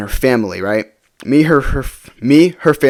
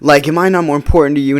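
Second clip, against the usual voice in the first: higher-pitched, mildly indignant imitation; retold mad girlfriend; 4 semitones higher than usual. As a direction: imitate a girlfriend's hurt demand. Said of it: "she got all mad at me".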